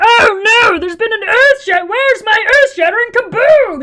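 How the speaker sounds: angry, shrill, high cartoon alien voice. Showing how a line changes when the character is angry: angry Marvin the Martian voice. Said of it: "if I want Marvin the Martian to be angry".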